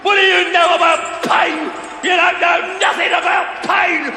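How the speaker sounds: dying cook raging at the soldiers; bitter outburst. Acted. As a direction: throw his pain back at them. Dying cook rages at them.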